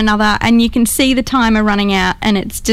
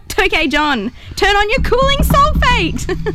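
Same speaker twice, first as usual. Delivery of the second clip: high, slow, drawn-out call; excited command; 9 semitones higher, slower than usual. Real, not acted. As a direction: call it out in a panic. Yelling commands in game.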